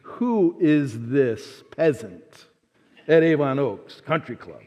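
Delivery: slow, sniffy disdain; snooty old golfer. Retold or imitated. Old duffers sizing up the outsider, slow and snooty. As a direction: look down your nose at the newcomer. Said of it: "I knew what they were thinking".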